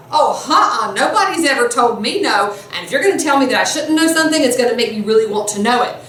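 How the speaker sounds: quick, mildly indignant comeback; defiant retort. Acted. Lecturer voices Oedipus brushing off the oracle's warning, mildly defiant. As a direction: push back like someone never told no. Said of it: "He takes the".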